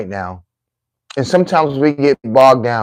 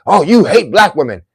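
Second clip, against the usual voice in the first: mock accusing; 4 semitones higher, 5 dB louder than usual. Mimics accusers' reaction.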